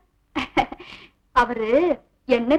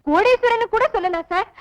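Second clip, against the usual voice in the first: fake tearful pleading. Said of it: "பிரமாதண்டி உன் நடிப்பு".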